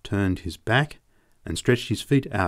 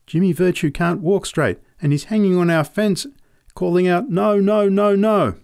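put-on sobbing child; 7 semitones higher than usual. A narrator's reading. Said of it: "I lifted my face to her and sobbed".

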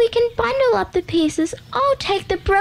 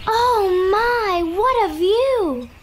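sighing; 14 semitones higher, much slower than usual. Acted. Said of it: "she sighed".

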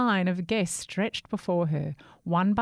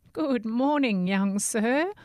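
calling out; 5 semitones higher, 4 dB louder, slower than usual. Acted. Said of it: "called out an old woman".

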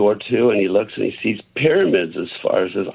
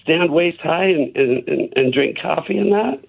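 higher-pitched, questioning joke character; lightly voiced man in disbelief, ending higher; joke's incredulous man; 5 semitones higher than usual. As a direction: raise the pitch into a surprised question. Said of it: "he says".

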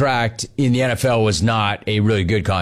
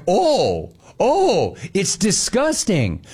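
mock echo; 6 semitones higher, much slower than usual. Husband mocking his wife's verdict, higher and teasing. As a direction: parrot her words back with a higher mocking lilt. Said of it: "Oh, I'm like".

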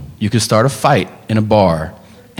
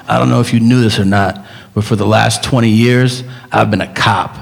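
imitating Steven Seagal; 4 semitones lower than usual. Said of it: "looking into camera and saying".

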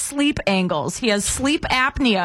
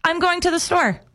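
lightly acted dad calling out, a bit higher; mock errand announcement; 5 semitones higher than usual. Dad telling the family he's off to the store, mock announcement. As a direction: imitate a husband announcing he's off.

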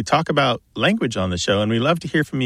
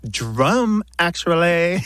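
snotty; 4 semitones higher, much slower than usual. Pretend. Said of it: "as snotty as possible".

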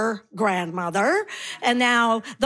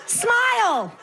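pretend deaf granny; 5 semitones higher than usual. Comic answering the heckle, pretending to be a deaf granny. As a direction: play a deaf granny mishearing everything. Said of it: "I pretend I'm deaf".

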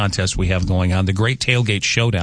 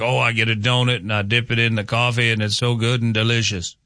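lightly put-on voice of a coffee dunker, dreamy; mock dunker voice. Host mocking people who dip donuts, lightly gushing voice. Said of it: "I don't know what accent or voice that is".

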